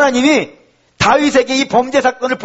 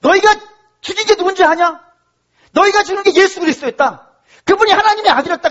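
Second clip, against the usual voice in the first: high-pitched preaching proclamation; 베드로의 전도; 6 semitones higher than usual. Acted. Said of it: "베드로가 나가 전도를 했어요". (높은 목소리로 선포하는 설교)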